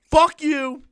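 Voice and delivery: loud, high outburst; shouted fuck you. Pretend. Shouting at the movie screen in disgust, high and loud. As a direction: yell it at the screen.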